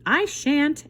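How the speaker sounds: high, loud refusing rooster; bratty rooster refusal; lazy rooster. Acted. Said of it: "answered the rooster".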